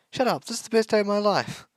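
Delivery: high and loud squeal; ecstatic. Acted. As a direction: shriek it with pure joy. Girl ecstatic over crush.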